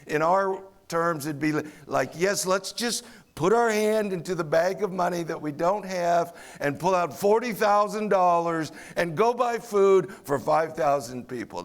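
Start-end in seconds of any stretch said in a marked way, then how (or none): 2.1-11.6 a hint of mocking sarcasm; lightly mock the impossible plan; sarcastic. Disciples scoff at buying food for thousands, mild sarcasm. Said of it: "That sounds like a really good plan".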